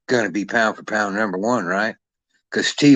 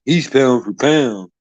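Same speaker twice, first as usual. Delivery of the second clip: slow, drawn-out mimicry of a know-it-all; mocking quote; 3 semitones higher, 4 dB louder, slower than usual. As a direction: parrot them slowly with scorn. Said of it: "So that you say shit like".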